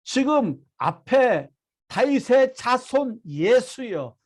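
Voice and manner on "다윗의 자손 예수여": slow, mildly raised preacher's cry; half-acted shout for mercy; retold cry. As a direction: call out the plea, drawn out. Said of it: "더욱 크게 소리질러".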